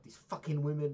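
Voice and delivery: put-on Welsh accent. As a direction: do his bitter Welsh voice. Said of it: "he's got a very funny Welsh accent".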